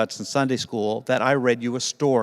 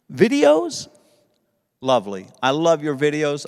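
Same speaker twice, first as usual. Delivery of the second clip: squeaky partner voice; 2 semitones higher, 3 dB louder than usual. Acted. Puppet partner answers anniversary question.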